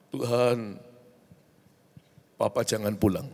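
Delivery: low, softly spoken plea to God; retold prayer. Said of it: "kami sering berdoa seperti ini". (doa lirih yang ditirukan)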